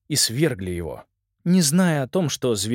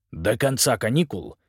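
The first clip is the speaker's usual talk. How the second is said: curt; 2 semitones higher than usual. Acted. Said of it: "отрезал он".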